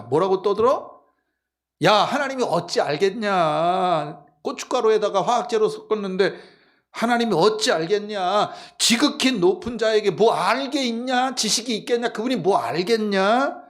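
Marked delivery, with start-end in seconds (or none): 1.8-13.6 악인 흉내로 신을 얕보듯 큰소리치기; 말끝을 끌며 비아냥대는 척; 거만하게 떠들기. Acted. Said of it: "그 사람들이 떠드는 거야". (오만한 악인 말투)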